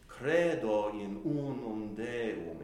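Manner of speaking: "Credo in unum Deum" slow, lightly stretched; Latinate accentuation. Shown as a demonstration. Teacher putting the phrase into Latin, stretched accents. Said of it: "Latinate, um, accentuation".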